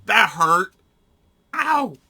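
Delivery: loud, high real complaint of pain; pained shout. Real, not acted. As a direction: yell it as it stings. Finger hurt by trigger.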